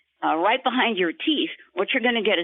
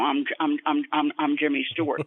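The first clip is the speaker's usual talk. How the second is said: a light hint of a halting stammer; mild old movie star stammer; Jimmy Stewart. Shown as a demonstration. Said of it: "So he would talk like this".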